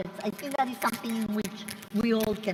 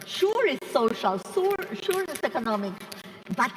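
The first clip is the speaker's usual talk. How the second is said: mock concession. Panelist imitating environmentalists to the moderator, mock-conceding. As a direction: imitate a believer brushing off the other points.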